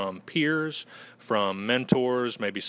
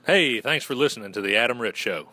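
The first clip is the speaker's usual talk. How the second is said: Southern gentleman accent; 4 dB louder than usual. Shown as a demonstration. Guest says the show tag for the host, Southern gentleman accent. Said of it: "I love the accent. I, I just say".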